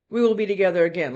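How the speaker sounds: sweet promise, demonstrated. Shown as a demonstration. Reader showing one of two meanings of a card, sweet. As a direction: say it as a sweet reassurance. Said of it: "like a sweet thing".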